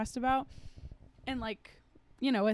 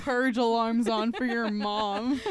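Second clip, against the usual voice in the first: mock disbelief; 5 dB louder than usual. Mock reaction to scary ringtone.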